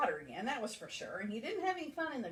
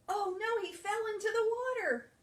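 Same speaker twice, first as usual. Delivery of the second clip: high, fast alarmed narration; 10 semitones higher, 6 dB louder than usual. A narrator's reading. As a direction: rush it out in alarm. Cat falls in water.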